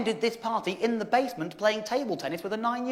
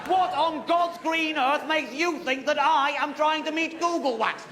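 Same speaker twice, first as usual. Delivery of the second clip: exasperated retort; 3 semitones higher than usual. Retold or imitated. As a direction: spell out your disbelief slowly.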